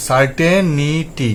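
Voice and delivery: সার্টেনিটি said very slowly, ending clearly নি-টি; slow careful সার্টেনিটি with নিটি, not ইটি; slow demo of নিটি. Shown as a demonstration. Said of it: "নিটি পড়বো".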